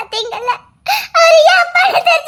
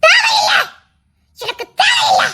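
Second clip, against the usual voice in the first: tearful shout; 5 semitones higher than usual. Acted. Daughter refusing apology.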